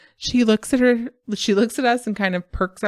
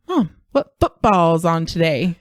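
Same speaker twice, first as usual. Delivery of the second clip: "football" with the weight on BALL; kid's question, stressing the end of "football"; emphasis on wrong syllable. Retold or imitated. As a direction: slowly imitate a child saying "football" as foot-BALL. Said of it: "It's just the emphasis".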